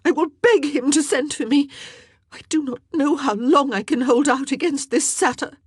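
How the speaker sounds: high, loud outraged queen; tearful fury. A narrator's reading. Queen raging to her ladies, high and tearful. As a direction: rail through tears, demanding help. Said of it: "burst into furious tears".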